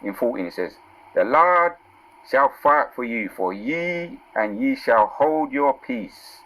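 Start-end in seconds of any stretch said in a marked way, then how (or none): 1.1-6.4 raised, slow preacher's reading of the verse; scripture reading. Acted. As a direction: proclaim the verse to the congregation. Reads scripture with emphasis.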